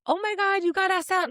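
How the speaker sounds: high-pitched, imitated thrilled friends; mock girlish excitement. Girls reacting to a friend being asked out, mock excitement. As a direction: gush like girls hearing big news.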